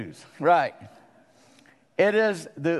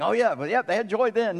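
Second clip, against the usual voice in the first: mock dismissive; 5 semitones higher than usual. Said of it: "We think".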